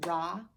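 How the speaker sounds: "Rocket" in two loud, separated beats; clapped syllables. Shown as a demonstration. Teacher clapping out syllables for children, "Rocket" broken in two. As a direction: say "Rocket" as rock, long gap, et. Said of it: "for my syllables".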